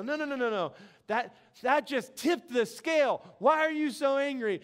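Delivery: mock insistent challenge; insistent counselor. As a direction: brush off the excuse and press the question. Acts counselor pressing him.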